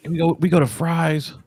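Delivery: a light take on his daughter asking, amazed; daughter's voice. Retold or imitated. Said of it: "she's like".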